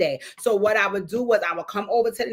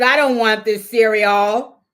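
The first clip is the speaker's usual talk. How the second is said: put-on stubborn kid; 7 dB louder, slower than usual. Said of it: "He said".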